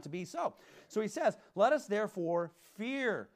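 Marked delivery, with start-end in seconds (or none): 1.5-3.3 slow, weighty reading of the verse; scripture reading. Acted. Preacher reading Hebrews to the congregation, slow and solemn. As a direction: read the verse out slowly, with weight. Reads scripture slowly aloud.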